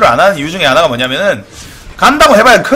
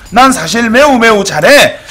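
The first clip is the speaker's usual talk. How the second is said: mock bragging; 4 semitones higher, 4 dB louder than usual. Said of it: "라고 말하고 싶은 거야".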